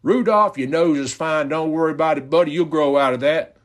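high gentle reassuring Santa; calm the boy down kindly; kind reassurance. Pretend. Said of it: "does Santa Claus say something like".

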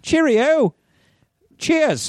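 high mock British cheerio, cheers. Joking about picking up the British accent, mock British cheer. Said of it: "it's hard not to talk in the accent of the places where you are".

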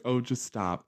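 soft, hushed scolding mom; quiet mock scold; mom hushing. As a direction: hush him like a mortified mother. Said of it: "My mom was like".

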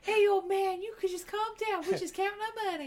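high, loud mocking thug voice; smug thug. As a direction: talk down to the old man, smug. Thugs reply to homeowner.

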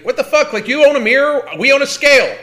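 high, incredulous rant; indignant and pitched well up; real exasperation. Real, not acted.

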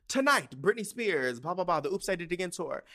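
lightly hyped tour announcement, skimming the middle; mock announcer. Reading the lit arena sign aloud, mock announcer.

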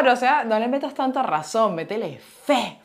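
acted-out cry for help; pleading inner cry. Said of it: "pedía ayuda por dentro".

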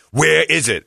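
mock indignant demand; confrontational attitude. Lady repeats her demand to the man eating, indignant. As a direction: demand it like an affronted accuser. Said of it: "taken aback by the attitude".

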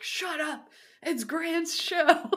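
put-on high, loud crotchety old man yelling; old prospector. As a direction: yell like a grumpy old codger. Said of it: "when we're old and crotchety".

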